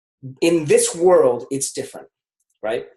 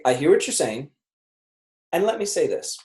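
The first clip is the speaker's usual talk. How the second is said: even, calm empathy line; calm empathetic pivot. Shown as a demonstration. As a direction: acknowledge then pivot, calmly. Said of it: "I say".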